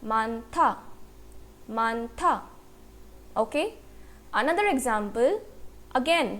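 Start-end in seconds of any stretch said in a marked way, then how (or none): 0.0-0.7 मानथा split as मान, then था; pronunciation demo. Shown as a demonstration. Teacher models the example word, sounding out मानथा by syllable. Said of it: "word का pronunciation क्या हुआ". 1.7-2.3 मानथा split as मान, then था; pronunciation demo. Shown as a demonstration. Teacher models the example word, sounding out मानथा by syllable. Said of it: "word का pronunciation क्या हुआ".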